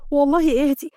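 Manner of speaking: whispered plea to calm down. Acted. Camilia soothing upset Kenda, whispered.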